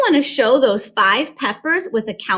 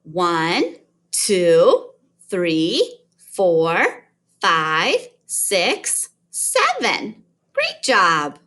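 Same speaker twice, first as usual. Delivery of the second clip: put-on kids show host; 5 semitones lower, much slower than usual. Shown as a demonstration. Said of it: "watch my mouse and count with me".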